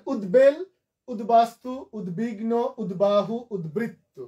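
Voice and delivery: উদ্বেল to উদ্বৃত্ত listed with a clear db in each; b sounded. Shown as a demonstration. Teacher recapping examples for students, every b sounded. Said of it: "বফলা উচ্চারণ হবে".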